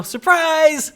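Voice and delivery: mock surprise. Mock cheerful winter announcement.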